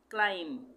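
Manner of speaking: क्लाइम ending on M with no b; silent B. Shown as a demonstration. Teacher showing learners the silent B, क्लाइम ending on M. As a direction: say क्लाइम as "klime", lips closing on M. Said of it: "बी का उच्चारण नहीं होगा".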